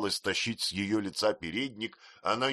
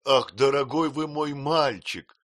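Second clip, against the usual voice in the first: loud, slower moved exclamation; exclaiming; 7 semitones higher, 7 dB louder, slower than usual. A narrator's reading. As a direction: cry out, touched. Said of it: "воскликнула Пиготи".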